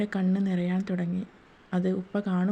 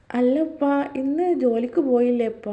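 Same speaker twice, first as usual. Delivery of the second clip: higher, louder surprised asking; surprised question; 5 semitones higher, 6 dB louder than usual. Acted. Daughter surprised her father skipped work, asking higher and louder. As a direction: catch him off guard with the question.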